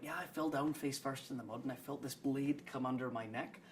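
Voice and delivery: lightly imitated Scots-Kiwi storyteller; touch of the shopkeeper's accent; shopkeeper's put-on accent. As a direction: recount a war yarn in a mild Scots-Kiwi accent. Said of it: "he told me all these stories".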